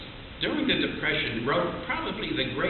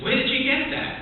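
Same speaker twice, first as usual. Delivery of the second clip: bartender asking; 11 semitones higher than usual. Acted. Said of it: "the bartender looks at him and says".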